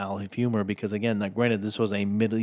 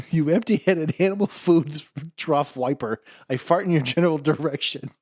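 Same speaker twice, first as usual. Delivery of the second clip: French taunter; 7 semitones higher, 5 dB louder than usual. Retold or imitated. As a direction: hurl the insult in a silly French accent. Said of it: "He's like".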